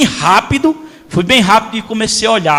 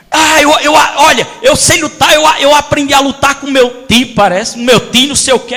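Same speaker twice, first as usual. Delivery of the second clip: put-on eager boy showing off, shouting; boastful kid; 4 semitones higher than usual. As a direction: brag like a know-it-all boy. Boy boasting to old master.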